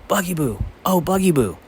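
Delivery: high overjoyed cry of a name; joyful yell. A narrator's reading. Cat running to the secretary, joyful high yell. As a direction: shout the name in happy reunion. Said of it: "toward the maniac secretary yelling".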